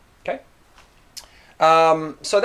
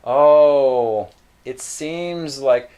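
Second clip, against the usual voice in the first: slow, gentle "Oh, it seems like"; a touch of a soothing hedge; softer sounding; 6 dB louder, much slower than usual. Shown as a demonstration. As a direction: cushion the bad news. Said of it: "a bit softer".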